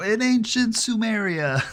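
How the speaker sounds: very high academic lecture voice. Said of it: "you wanna know how to do a Jordan Peterson accent".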